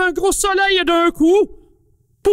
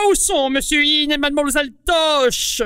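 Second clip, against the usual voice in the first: calling out. Acted. Calling for friends.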